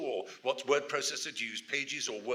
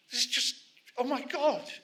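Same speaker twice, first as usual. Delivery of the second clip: high-pitched exasperated gasp; acted writer's panic, pitched way up; mock overwhelmed; 4 dB louder than usual. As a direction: despair at the size of the task.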